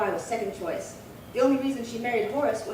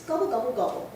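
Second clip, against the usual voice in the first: mock gobbling. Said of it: "You ought to see the way she eats".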